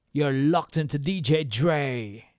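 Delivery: slow, loud DJ announcement; big radio drop voice. Shown as a demonstration. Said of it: "So I'm gonna voice a drop".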